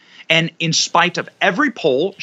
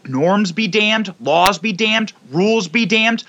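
higher-pitched, drawn-out defiant chant; mock defiant declaration; 6 semitones higher, slower than usual. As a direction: act out a raised-pitch mock proclamation. Voicing the vengeful establishment's rant.

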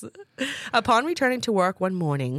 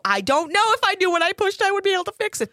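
flustered; 13 semitones higher, 3 dB louder, faster than usual. Retold or imitated. Retold flustered self.

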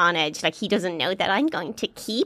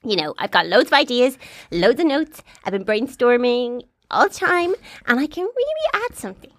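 pleading high voice; 5 semitones higher than usual. Retold or imitated. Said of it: "I said".

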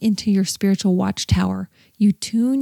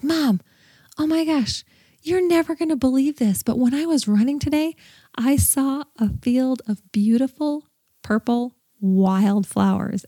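much higher, bursting with excited news; excited daughter; 5 semitones higher than usual. Retold or imitated. A daughter rushing in to tell her mom, excited and high. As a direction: gush it like a thrilled teenager. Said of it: "and she's like".

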